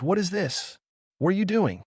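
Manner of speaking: high, far-off startled voice; baffled brute asking what hit him; puzzled rhino man. Acted. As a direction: rhinoceros man confused by the button on his body. Rhino man puzzled by stuck button.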